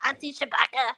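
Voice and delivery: lightly voiced nephew calling auntie; hint of a teasing nephew; imitating a man. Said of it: "You sound just like him".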